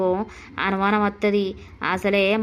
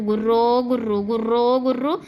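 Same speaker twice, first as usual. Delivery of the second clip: snoring imitation. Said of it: "ఆమె వచ్చినప్పటి నుండి సక్కగా నిద్ర లేదు".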